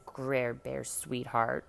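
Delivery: slow, syrupy sarcastic sweetness; mock sweet. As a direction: drag out the pet name to annoy. Teasing with hated nickname.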